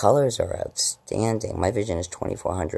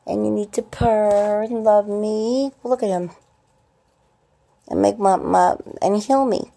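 put-on much higher, cooing baby talk to the cats; sweet high pet talk, louder; 14 semitones higher, 5 dB louder than usual. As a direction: coo at the kitties like they're babies.

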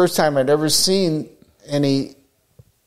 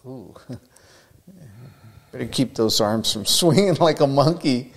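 laughing self-mockery. Mock self-critique while laughing.

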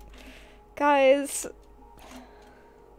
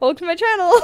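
anime voice; 6 semitones higher, 8 dB louder, much faster than usual. Acted. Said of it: "Is this what every stream is like?".

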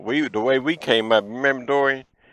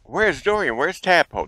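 frantic mom; 5 semitones higher than usual. Retold or imitated. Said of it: "she's getting frantic".

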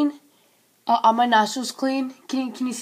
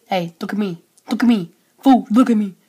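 mock tough guy; 4 semitones lower, 5 dB louder, faster than usual. Mock tough-guy confrontation with stranger.

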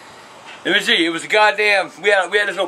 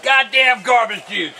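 slow, higher furious curse; raging as garbage juice spills; angry outburst; 4 semitones higher, slower than usual. Real, not acted. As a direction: let it rip at the spilled garbage. Garbage bag bursts, he rages.

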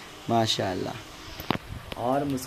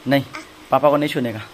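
firm scolding; 7 dB louder, faster than usual. Real, not acted. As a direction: tell her off firmly. Scolding the toddler. (बच्ची को सख़्ती से डाँटना)

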